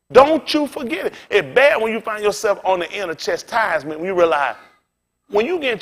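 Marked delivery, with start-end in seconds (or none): 0.1-1.1 DON'T hit hard, the warning pressed home; stern warning, louder. Acted. Preacher repeating the command louder to the congregation, stern. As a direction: push it the second time so it lands.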